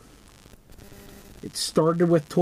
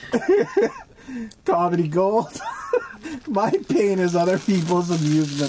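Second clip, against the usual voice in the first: giggling at own misery; laughing; 3 semitones higher than usual. Real, not acted.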